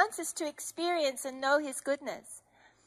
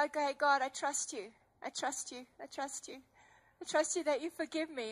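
fading, softer with each repeat; quiet surrender; 7 dB quieter than usual. Retold or imitated. Surrendering to God at the altar, fading softly. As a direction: whisper the trust away into stillness. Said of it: "I just said".

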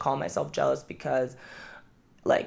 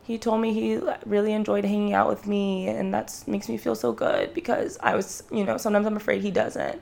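put-on reading old journal; 5 semitones higher than usual. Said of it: "I was saying things like".

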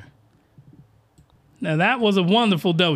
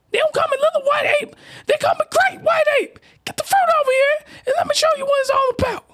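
Lil White Ape voice. Acted. Reader doing the Lil White Ape character in a much higher squeaky voice. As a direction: squeal it way up high like a giddy cartoon girl. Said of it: "I gotta do the voice".

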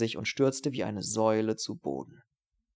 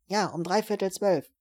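much higher voiced woman answering; woman on the phone; 9 semitones higher, 3 dB louder than usual. Housewife answering Steiner's call, higher woman's voice. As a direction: lift into a woman's voice, helpful. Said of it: "Eine Frau meldete sich".

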